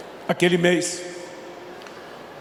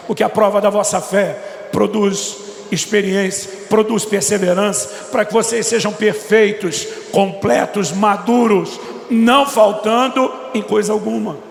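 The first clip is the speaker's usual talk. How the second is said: building louder through the verse; rising preaching fervor; 3 semitones higher, 4 dB louder than usual. Acted. Preacher reading James to the church, building to loud fervor. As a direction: preach it, climbing in force.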